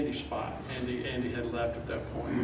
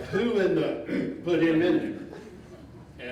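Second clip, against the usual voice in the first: slow, louder imitation of a booming coach; 3 semitones higher, 4 dB louder, slower than usual. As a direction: boom the question out, stretching it. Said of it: "I hear this voice boom and go".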